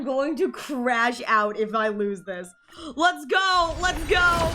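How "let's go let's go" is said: cheering. Real, not acted. Cheering a pull.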